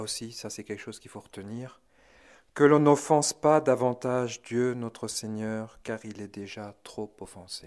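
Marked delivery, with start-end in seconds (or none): 2.5-7.7 sadder tone. Retold or imitated. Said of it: "prenant un air plus triste".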